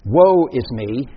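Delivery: loud, slow lament; Isaiah's devastated cry. Acted. Preacher quoting the devastated prophet, loud woeful cry. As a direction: cry it out, drawing the words long. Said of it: "the expression he uses there, when he says".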